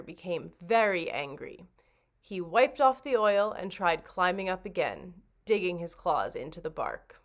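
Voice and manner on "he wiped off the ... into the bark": plain reading voice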